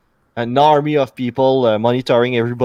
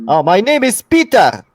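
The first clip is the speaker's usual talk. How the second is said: high, louder mock scammer introducing himself; fake Peter voice; 9 semitones higher, 5 dB louder than usual. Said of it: "you really sounds like a Peter right now".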